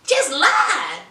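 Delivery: high, fast indignant outburst; indignant wife. Retold or imitated. Wife catching husband lying, high and fast. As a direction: spit out the accusation. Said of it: "She was like".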